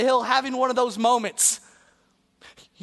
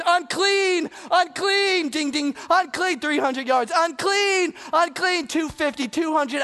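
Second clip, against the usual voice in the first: warning calls; 5 semitones higher than usual. Acted. Leper running down the hill.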